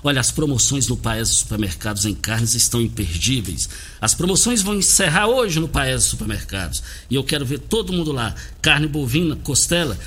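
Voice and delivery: punchy radio ad read; hard sell ad. Acted. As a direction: sell the deals with energy. Host reads supermarket ad.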